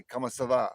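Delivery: "Comment ça va" run together as "commus-a-va"; everyday Quebec French. Shown as a demonstration. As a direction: say "Comment ça va" casually, middle syllable reduced. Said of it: "ask somebody how they were doing in French".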